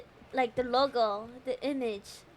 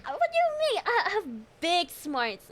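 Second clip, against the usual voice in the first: mock offended; 2 semitones higher than usual.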